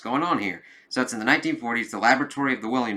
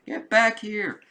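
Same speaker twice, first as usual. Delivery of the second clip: calling out; 11 semitones higher, slower than usual. Acted. Cop calling after fleeing hero.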